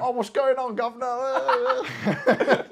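put-on hammy Cockney British accent. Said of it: "can I just do British?".

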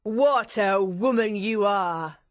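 loud, drawn-out admiration; loud gushing exclamation; admiring cry. Acted. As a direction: cry it out slowly in awe. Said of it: "Vengeance cried in admiration".

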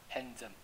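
"handsome" said as HAN-zum; no d in "handsome", just a z. Shown as a demonstration. Teacher explaining merged sounds, "handsome" with z for ds. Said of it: "D跟S你要念Z".

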